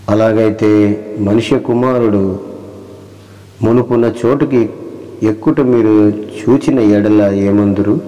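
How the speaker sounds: slow, solemn reading of the verse; solemn slow scripture recital. Acted. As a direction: read the Bible words slowly and weightily. Reads scripture aloud, slowly.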